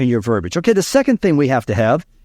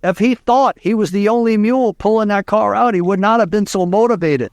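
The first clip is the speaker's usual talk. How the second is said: put-on higher-pitched Cajun accent; wise Cajun farmer; 6 semitones higher than usual. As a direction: explain it as the old Cajun farmer. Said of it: "The wise Cajun farmer looked at him and said".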